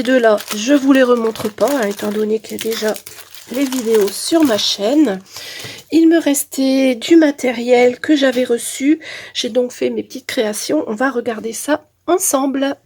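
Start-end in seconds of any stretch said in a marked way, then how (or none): 5.9-12.8 talking through a blocked nose; nasal voice from a head cold. Real, not acted. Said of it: "J'ai le nez bouché".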